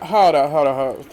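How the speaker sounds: imitating a sharp hold up that drops away; mock hold up. Sutton cutting off Kyle mid-complaint, mock sharp hold up. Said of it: "Sutton like".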